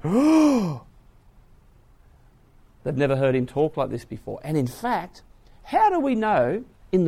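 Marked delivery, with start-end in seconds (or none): 0.0-0.8 high startled "Oh"; stunned, high "Oh"; shocked gasp. Retold or imitated. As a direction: caught off guard, sharp intake.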